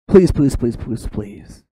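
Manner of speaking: pleading. Acted. Moses pleads with God, acted pleading that fades. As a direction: act out an understated desperate plea. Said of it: "pleads with God".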